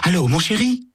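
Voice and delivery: unrecognisable voice. Acted. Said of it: "d'une voix que Sam a du mal à reconnaître".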